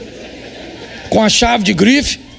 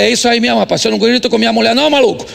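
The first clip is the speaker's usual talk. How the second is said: mock scolding; faster than usual. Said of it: "Eu falei".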